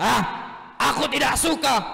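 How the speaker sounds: high, cross, irritable angry king voice. Telling a children's story, voicing King Abraha hearing about the Kaaba: angry king voice. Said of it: "jangan marah-marah".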